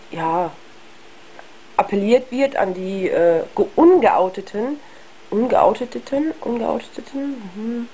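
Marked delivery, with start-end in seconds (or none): 3.7-7.5 ungeouteten retried slowly, syllable by syllable; stumbling over the word. Real, not acted. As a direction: trips over ungeouteten, tries again slowly. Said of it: "Ja, mein Deutsch, wow".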